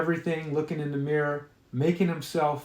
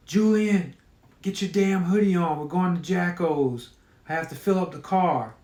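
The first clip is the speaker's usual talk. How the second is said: yelling mom; 3 semitones higher than usual. Acted. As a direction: shout for the kid to hurry. Mom calling son from door.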